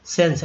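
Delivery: सेंस said as one clean syllable, sens; model pronunciation. Shown as a demonstration. Teacher models सेंस for the class. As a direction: say सेंस the way students should copy. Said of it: "ऐसे पढ़ेंगे".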